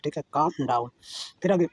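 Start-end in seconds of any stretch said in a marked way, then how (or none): 0.4-0.9 "calm" said kaam, L left silent. Shown as a demonstration. Teacher modelling the word for Hindi learners, with a silent L. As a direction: say "calm" with no L, long open aa. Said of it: "एल जो है silent है".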